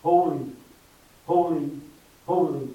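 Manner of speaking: loud ringing cry of holy; proclaimed holy. Acted. Preacher to congregation, ringing proclamation. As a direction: call it out like the heavenly host.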